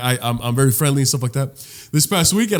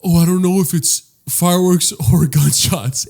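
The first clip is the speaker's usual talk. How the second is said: mocking naive tweeters, voice raised a little; mock worry; 4 semitones higher, 3 dB louder than usual. Mocking people who tweet about gunshots, mock worry. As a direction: put on mild fretting.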